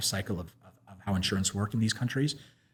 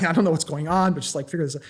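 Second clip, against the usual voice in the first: imitated anger, pitched up; mock furious; 5 semitones higher than usual. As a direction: retell the banker's indignant outburst. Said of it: "the banker is furious".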